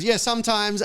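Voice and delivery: high, loud, flustered fan reply; eager starstruck agreement, acted out. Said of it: "he was so starstruck".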